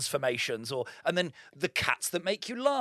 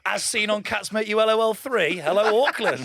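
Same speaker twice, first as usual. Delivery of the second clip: mock arena comic; 3 semitones higher, 6 dB louder than usual. Mock stadium gig greeting.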